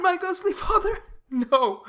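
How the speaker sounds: light laugh through the words. Acted. Romeo laughing off the friar's mention of Rosaline, amused.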